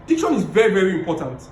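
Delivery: rising then falling tone on Diction is very very important; tone demo. Shown as a demonstration. Coach showing tone to public speaking class. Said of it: "I can say something like this".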